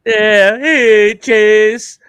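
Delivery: high, loud excited greeting; calling a dog. Real, not acted. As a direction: call the dog over in a high voice.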